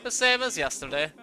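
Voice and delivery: put-on German-accented monk. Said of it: "I gave him a German accent".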